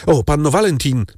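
high, eager call. A narrator's reading. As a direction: call to her across the room. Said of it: "zawołał Franz".

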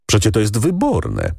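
usual speaking voice

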